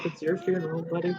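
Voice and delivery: hushed, resigned aside under the breath; muttering under his breath. Acted. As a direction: mutter it quietly, half to yourself. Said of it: "muttering under his breath".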